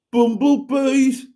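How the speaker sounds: put-on loud, high, drawn-out Black Country accent. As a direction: belt it out slowly in broad Black Country. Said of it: "a Black Country accent".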